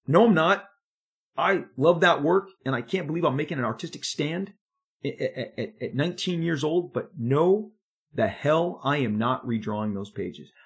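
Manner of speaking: defiant. Retold or imitated. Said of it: "I'm going".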